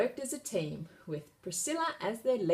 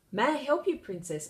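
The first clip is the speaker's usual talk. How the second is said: eager knight; 7 semitones higher, 4 dB louder than usual. A narrator's reading. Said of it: "asked the knight".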